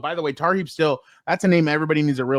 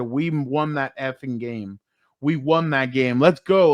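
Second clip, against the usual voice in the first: retold coach yelling; slower than usual. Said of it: "we hear screaming".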